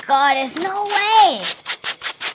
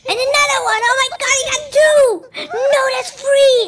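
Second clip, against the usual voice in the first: excited; 6 semitones higher, 4 dB louder, faster than usual. Real, not acted. Excited counting during the reaction.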